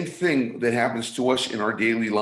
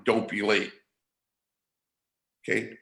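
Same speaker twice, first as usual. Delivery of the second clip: gruff boss; 2 semitones lower, 3 dB quieter than usual. Retold or imitated. Speaker imitates the boss's order in a gruff tone. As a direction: bark "Don't be late." like a lightly gruff boss. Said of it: "kind of in a gruff voice".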